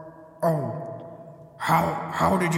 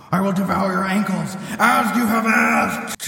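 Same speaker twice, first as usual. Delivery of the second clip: booming hungry deity, louder; monster god voice; 5 semitones higher, 5 dB louder than usual. Acted. Monster god threatens heroes.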